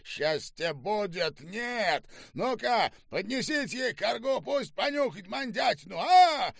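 very high, mocking officer's voice; jeering command. A narrator's reading. General directs soldiers to humiliate prisoner, jeering yell. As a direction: taunt and order, rising to a shout. General gives gleeful, cruel orders.

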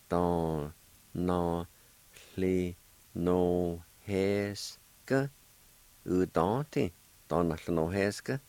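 Don, no, hli, no, heska with a breathy hli; Cherokee word said twice. Shown as a demonstration. Teacher modelling the word for learners. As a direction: repeat the Cherokee word carefully. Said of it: "Then together".

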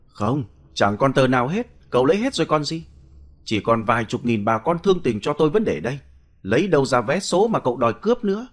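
put-on sharp, irritated protest from the blind old man; snapping. Blind old man snaps at the thug who robbed him, sharply. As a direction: snap back, bitter and cornered. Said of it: "Lão Chí gắt lên".

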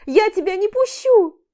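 громкий высокий крик; кричать, не пуская. A narrator's reading. Истерика у двери. (Аля кричит, не пуская Олега)

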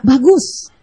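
"Bagus" lifted with a bright rise; upbeat praise. Shown as a demonstration. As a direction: say "Bagus" with real lift. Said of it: "Jadi diganti apa".

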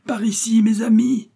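breathless, then call out to friends; panting call. A narrator's reading. Detective holding the bandit calls his friends, panting whisper. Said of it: "la voix haletante du détective".

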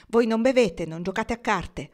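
protest, hitting the first words hard. A narrator's reading. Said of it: "protestò". (protesta decisa)

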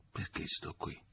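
sussurro senza voce, tra sé; pensiero sussurrato. A narrator's reading. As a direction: pensa ad alta voce, in un soffio. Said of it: "pensò". (sussurro di un pensiero segreto)

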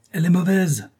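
high, loud indignant shout; a shrill cry of outrage. A narrator's reading. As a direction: yell it from the corridor. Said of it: "criait cette voix".

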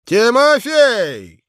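high, loud shouts for the waiter; loud calling out. Acted. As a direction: holler for service, impatient. Revellers calling the servant.

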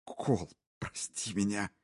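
a touch of tearful pleading; crying. Acted. Husband begging his wife's forgiveness, mildly tearful. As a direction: plead through tears. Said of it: "Он плакал, не скрывая слёз".

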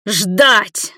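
loud howl like a wounded beast. A narrator's reading. Igor howls one word at Nina. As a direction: howl it in pain. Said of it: "как раненый зверь завопил он".

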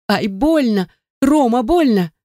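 pleading moan of pain. Acted. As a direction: cry out the name through the pain. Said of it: "простонала я".

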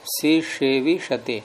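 सिसेविषते slowly, second s turned into retroflex ष; slow model pronunciation of सिसेविषते as "si-she-vi-sha-te". Shown as a demonstration. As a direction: say सिसेविषते drawn out, with "si-she" at the start. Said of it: "मूर्धन हो जाएगा ना".

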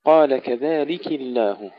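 كذلك الله with the K clearly given its i-vowel; clear kasra on kaf. Shown as a demonstration. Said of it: "ننتبه إلى كسر الكاف". (كسر الكاف بوضوح)

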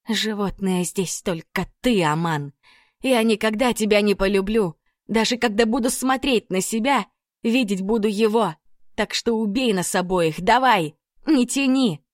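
defiant outburst. Acted. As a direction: throw the dare back at him. Lilya defies the sheikh.

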